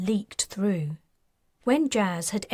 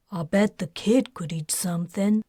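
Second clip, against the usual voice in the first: talking through a mouthful of food; mouth full. Acted. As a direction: say it while chewing rice. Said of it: "her mouth full".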